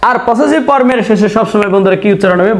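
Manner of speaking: whispered, teasing classroom question. Acted. Teacher quizzing students in a whisper.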